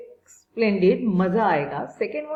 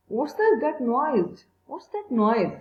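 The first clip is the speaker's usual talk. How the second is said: sudden alarm; 3 semitones higher, slower than usual. Acted. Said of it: "said Lucy suddenly".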